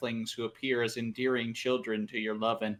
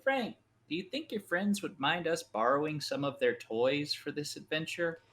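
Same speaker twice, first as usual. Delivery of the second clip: put-on slightly raised, talking-to-a-child voice; gentle coaxing; 4 semitones higher than usual. Rook asking a child to lend toys, gently coaxing. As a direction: ask a little kid nicely.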